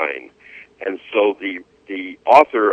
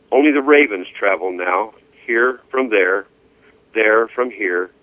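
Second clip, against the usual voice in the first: poem reading. Acted. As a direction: let each image settle, unhurried.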